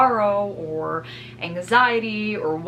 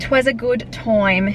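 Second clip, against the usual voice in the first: slow drawn-out 'Twas a good time; mock old-fashioned 'Twas; 4 semitones higher, 7 dB louder, much slower than usual. Vlogger playfully rewording a good time, slow mock-archaic 'Twas.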